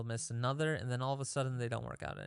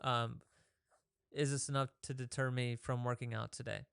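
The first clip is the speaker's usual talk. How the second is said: calm question. Retold or imitated. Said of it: "just calmly ask yourself".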